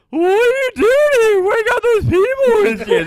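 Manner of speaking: very high, loud squawking bird voice; emu voice. Acted. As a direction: screech it like a suspicious emu. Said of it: "and then".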